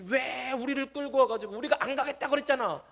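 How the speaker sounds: high-pitched mock outraged complaint; acted angry protest. Israelites turn on Moses for leading them out, acted angry outcry. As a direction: throw a fit, imitating an aggrieved crowd. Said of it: "모세한테 막 난리를 쳐요".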